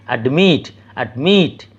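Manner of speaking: অ্যাডমিট with অ্যাড barely touched, weight on মিট; অ্যাডমিট, light start and tiny gap before মিট; lightly touched syllable. Shown as a demonstration. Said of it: "just ছুঁয়ে চলে যাচ্ছি".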